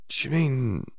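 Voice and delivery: lightly voiced eager schoolgirl, probing; curious Hermione. A narrator's reading. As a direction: Hermione haltingly asking the house elf a question. Hermione speaking to elf.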